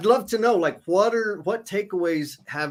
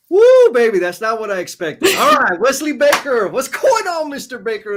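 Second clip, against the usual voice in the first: much louder and higher, whooping with surprise; cheering a friend's message on the stream, loud and high; excited whoop; 9 semitones higher, 9 dB louder than usual. Real, not acted. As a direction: burst out with delighted surprise.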